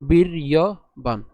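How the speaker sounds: বীর ইয় বান with the r clearly sounded. Shown as a demonstration. Teacher explaining the ref, বীর ইয় বান in clear pieces. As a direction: separate বীর ইয় বান, voicing the r before ya. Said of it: "তাহলে আমরা যদি উচ্চারণ করি".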